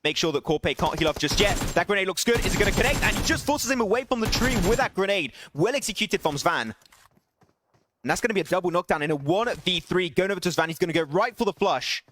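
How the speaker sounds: energetic esports caster calling the action; live play-by-play. Acted. Caster calling Svan's clutch for stream viewers, live play-by-play. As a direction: narrate the fight as it happens, rising at the clutch. Casting a battle royale match.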